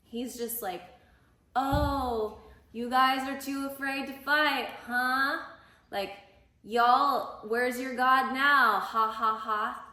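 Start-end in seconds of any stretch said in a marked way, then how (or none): 1.6-9.8 loud jeering taunt with a mock laugh; sneering schoolyard mockery with a fake ha ha ha. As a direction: taunt them like a bully giant. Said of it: "totally mocking them".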